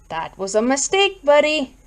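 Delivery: folksy reproach, lifting on the last word; reproachful. Acted. Lawnmower man scolding his customer for a mistake, reproachful. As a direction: chide him like a buddy. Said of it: "the lawnmower man said reproachfully".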